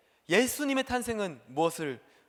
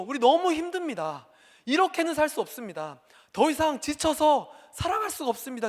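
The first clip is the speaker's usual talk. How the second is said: pleading, somewhat higher and louder; crying out to God; 5 semitones higher, 3 dB louder than usual. Acted. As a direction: plead with God, worn out and desperate. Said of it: "이렇게 울부짖었던 이스라엘 백성". (지친 백성이 하나님께 높게 애원)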